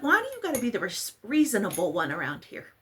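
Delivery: teasing husband with mock-annoyed squeal; mock exasperation. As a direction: act indignant that he's so sensible. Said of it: "I was like".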